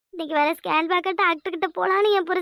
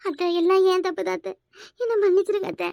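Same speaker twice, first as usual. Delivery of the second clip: put-on sobbing apology; tearful pleading. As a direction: beg the mother-in-law's forgiveness through tears. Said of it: "மாறி மாறி அழுறீங்க". (அழுது கெஞ்சும் குரல்)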